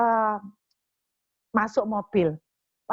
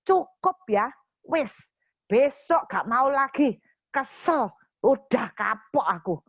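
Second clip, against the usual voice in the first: fed-up outburst; 3 semitones higher, slower than usual. Retold or imitated. Wife fed up after the long trip, exasperated outburst. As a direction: vent it, drawing out the words. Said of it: "saya langsung emosi".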